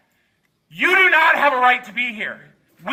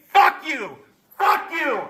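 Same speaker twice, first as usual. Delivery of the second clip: repeated furious curse, each one hammered; angry cursing; slower than usual. Real, not acted. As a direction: spit it at them again and again. Repeated insult at committee members.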